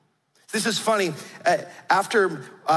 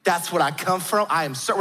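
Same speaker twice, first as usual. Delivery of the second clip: confiding Southern belle; 3 semitones lower than usual. Retold or imitated. Grandmother confiding royal descent to grandkids, confiding Southern belle. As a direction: lower Southern grandmother impression, no real whisper. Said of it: "She would, like, whisper to us".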